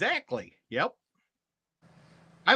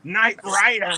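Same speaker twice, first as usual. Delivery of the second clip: slightly raised, punchy title call; Knight Rider catchphrase; 4 semitones higher, 4 dB louder than usual. Shown as a demonstration. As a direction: say it like a show title. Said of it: "put that back on and say".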